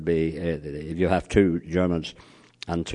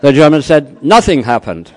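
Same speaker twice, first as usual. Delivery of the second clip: laughing; 8 semitones higher, 14 dB louder than usual. Real, not acted.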